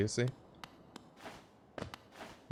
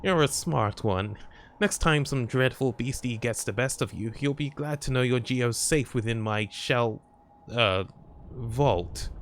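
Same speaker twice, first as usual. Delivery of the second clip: put-on old lady voice. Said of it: "How's my old lady voice?".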